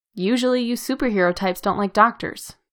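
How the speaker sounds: plain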